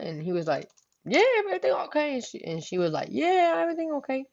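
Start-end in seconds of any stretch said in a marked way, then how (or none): 1.0-2.1 higher, quick mock answer; imitating boyfriend. 3.1-4.2 higher, softer mock reply; a light, higher copy of her cover-up; imitating cousin. Cousin answers, retold.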